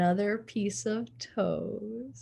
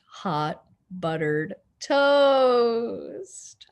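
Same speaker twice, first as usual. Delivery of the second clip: savoring; 2 semitones higher, 6 dB louder, much slower than usual. Real, not acted. Savoring favorite food.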